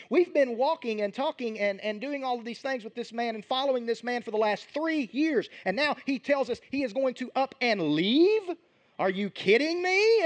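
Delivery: rising outrage of friends who feel abandoned; mock disbelief. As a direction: followers protesting that their teacher is leaving them, in rising disbelief. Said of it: "they're freaking out a little bit".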